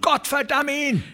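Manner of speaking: very high, spat-out curse; damn him with all your hatred; furious curse. Acted. A rancher cursing Shelgram, furious.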